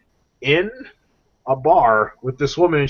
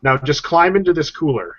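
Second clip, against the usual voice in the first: mock innocent alligator; 5 semitones higher than usual. Alligator denies scheme.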